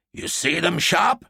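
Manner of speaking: a mild demanding question, rising at the end. A narrator's reading. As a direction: press him for an answer, lightly. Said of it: "he demanded".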